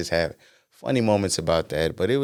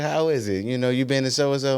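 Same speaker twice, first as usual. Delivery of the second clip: dad voice; 7 semitones higher than usual. Retold or imitated. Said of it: "He's like".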